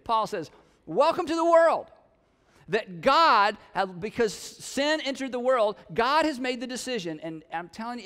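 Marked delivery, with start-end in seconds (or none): 0.9-1.9 wry mock welcome. Paul's wry reply to complaint.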